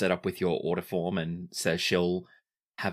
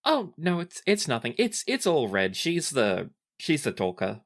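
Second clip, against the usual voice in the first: flustered, modest denial pitched higher; bashful; 5 semitones higher than usual. Acted. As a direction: brush off the praise, blushing. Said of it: "ducks her head and blushes and says".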